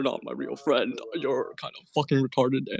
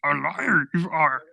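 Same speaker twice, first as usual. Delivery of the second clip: Yoda voice; slower than usual. Acted. Yoda syntax, slow.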